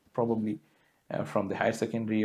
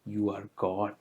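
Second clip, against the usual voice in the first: put-on softly and lovingly, as to a child; a quiet, tender blessing; gently lovingly retold; 3 semitones lower, 4 dB quieter than usual. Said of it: "Swami very lovingly said".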